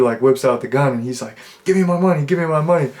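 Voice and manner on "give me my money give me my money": mock threat. Drug dealer whips out gun.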